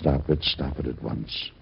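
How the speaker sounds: stern command. Acted. Husband stopping her hysteria.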